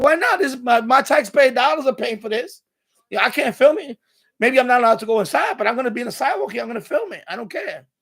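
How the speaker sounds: retelling a standoff with a guard, indignant; retold defiant protest. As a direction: push back at the guard, loud and offended. Retold arguing with security guard.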